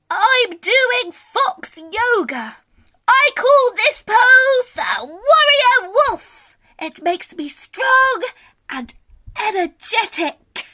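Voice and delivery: a gentle, pleased little fox showing off a pose; calm Scaredy Fox. Acted. Voices Scaredy Fox in story.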